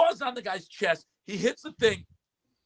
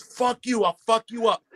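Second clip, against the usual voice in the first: higher mock-aggressive retort; imitated defiant guy; 6 semitones higher, 4 dB louder than usual. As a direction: replay his threat with raised pitch. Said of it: "He goes".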